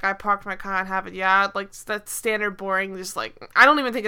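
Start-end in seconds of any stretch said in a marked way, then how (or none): 0.0-1.5 put-on lightly done New England accent, Harvard Yard style; a hint of an exaggerated New England accent. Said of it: "that standard, like, New England accent".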